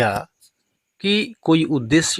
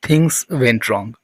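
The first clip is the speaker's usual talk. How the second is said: slow model phrase; 3 semitones lower, much slower than usual. Shown as a demonstration. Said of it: "बात बिगड़ गई".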